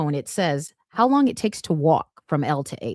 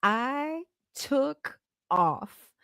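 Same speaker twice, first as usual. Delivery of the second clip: higher, very slow, stretched words; drawn-out; 7 semitones higher, 4 dB quieter, much slower than usual. Retold or imitated. Runner telling how they took off, drawn-out and dramatic. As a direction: stretch every word dramatically.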